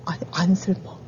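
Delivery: soft, whispered denial; hushed emotionless aside; numb murmur. Retold or imitated. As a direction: murmur it quietly, without feeling. Mimics her numb inner reaction.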